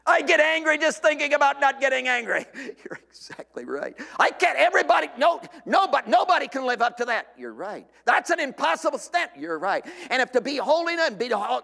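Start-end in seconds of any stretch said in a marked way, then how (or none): 4.2-7.3 protesting shout. Acted. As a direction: shout it down like a frustrated listener. Acted protester shouting back.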